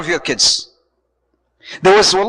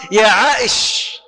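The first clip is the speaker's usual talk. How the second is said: tender pet-name call. Shown as a demonstration. The Prophet calling Aisha, tender pet-name call. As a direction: call her name gently, with affection. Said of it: "used to call Aisha sometimes".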